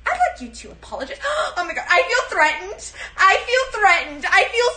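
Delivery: theatrical Karen feeling threatened; hammed-up Karen. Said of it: "pull off a fucking Karen".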